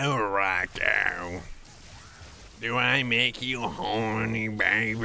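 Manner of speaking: husky smoker's rasp; gravelly voice. Pretend. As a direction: purr it like a heavy smoker. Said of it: "seven packs a day cigarette voice".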